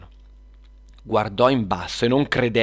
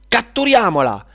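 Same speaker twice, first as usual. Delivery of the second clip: high, loud witch's battle cry; exclaimed command; 11 semitones higher, 8 dB louder than usual. Acted. Witch orders the capture of Luna, exclaiming. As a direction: cry out the order to give chase. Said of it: "esclamò la strega della discordia".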